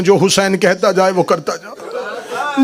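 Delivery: slow, weighed words; slow and measured. Acted. Zainab charging Abbas, slow and measured. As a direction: lay each word down slowly, like a solemn charge.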